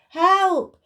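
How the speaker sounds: high, loud cry for help; shout. Acted. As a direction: yell it out, trapped and desperate. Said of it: "shouted Buster".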